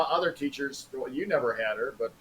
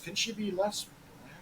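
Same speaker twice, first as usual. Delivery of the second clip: higher, slow prim teacher voice; mock prim teacher; 8 semitones higher, 8 dB quieter, slower than usual. Old colleague quotes Jo the teacher, high and slow. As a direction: drawl it like a fussy teacher. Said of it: "That's when Jo goes".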